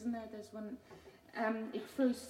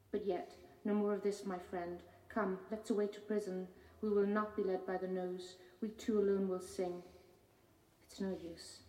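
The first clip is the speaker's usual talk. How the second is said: measured, deliberate poetry reading; poem reading. Acted. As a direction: read the poem with weight, line by line. Reads her poem aloud.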